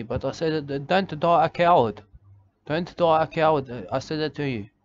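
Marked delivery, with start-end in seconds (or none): 0.9-3.7 firm, louder mock exhortation; retold urging. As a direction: urge it twice, raised and emphatic. Retells urging uncle not to die cowardly.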